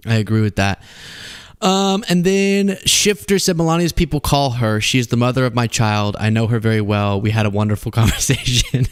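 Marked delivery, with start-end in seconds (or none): 3.6-8.9 light impression of a rambling president; Donald Trump. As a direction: lightly imitate the president's cadence, sinking in pitch. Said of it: "that's a Trump impression".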